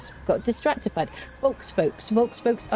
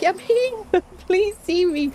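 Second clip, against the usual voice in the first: imitating an eager viewer; 11 semitones higher, slower than usual. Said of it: "You're like".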